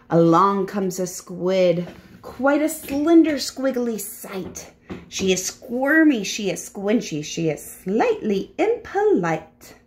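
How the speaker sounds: lively, sing-song picture book narration; story reading to children. A narrator's reading. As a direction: read it aloud to small children.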